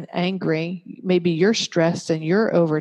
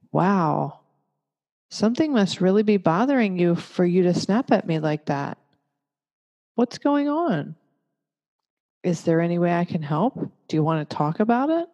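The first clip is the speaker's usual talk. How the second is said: loving and gentle. Shown as a demonstration. Parent calmly asking a snapping child what's going on, loving and gentle. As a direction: speak like to a friend. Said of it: "Much more loving and gentle".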